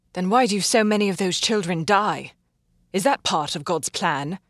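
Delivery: angry doctor defending her patients; sudden sharp retort. Acted. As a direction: fling the question back at him. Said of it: "sudden and sharp".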